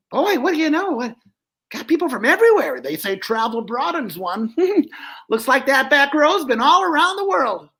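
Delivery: high, brash dummy voice; Joey the dummy. Acted. Dummy flirting with the lady down front, high and brash. Dummy insults back row.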